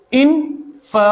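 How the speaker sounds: इन्फॉर्मेशन split as in, fuh, may, sun; syllable by syllable. Shown as a demonstration. Teacher at the board, इन्फॉर्मेशन in separate syllables. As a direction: break इन्फॉर्मेशन with pauses, weak fuh second. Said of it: "for की जगह फे हो जाएगा".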